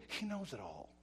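soft, falling statement; subdued warning. Real, not acted. Preacher on God seeing private sins, subdued. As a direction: say it softly, letting it sink in. First, subdued take of refrain.

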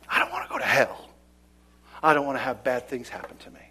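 fast, hushed selfish plea; sinner's whine. Acted. Preacher voicing the unrepentant sinner, fast and hushed. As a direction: rush it like a scared sinner.

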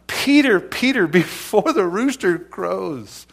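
PETER called out high and loud, twice; emphatic warning. Retold or imitated. Jesus warns Peter of his denial, emphatic warning. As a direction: ring out PETER, PETER, then slow down. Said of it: "for a rebuke or a warning".

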